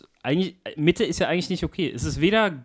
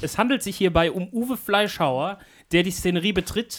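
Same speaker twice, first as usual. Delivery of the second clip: announcer voice; 3 semitones higher than usual. Acted. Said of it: "deswegen beschreibe ich mal, was hier passiert".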